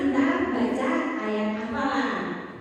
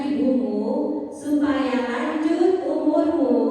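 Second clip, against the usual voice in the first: slow recitation. Shown as a demonstration. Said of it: "Sekarang kita baca bareng-bareng ya".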